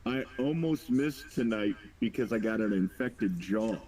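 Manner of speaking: talking through a sore jaw. Real, not acted. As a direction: speak carefully around a sore jaw. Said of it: "It hurts to talk right now".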